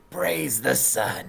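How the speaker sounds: slow, drawn-out salute; lizard character's salute. Acted. Repla greeting the girl from the cage, slow salute. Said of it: "I will still say".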